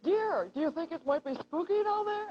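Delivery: slow, high, hammed-up dramatic reading; overly serious wife. Shown as a demonstration. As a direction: play the scared wife dead serious and slow. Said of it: "I'm supposed to play this very serious".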